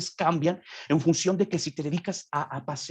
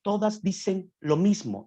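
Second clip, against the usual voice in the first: ordinary delivery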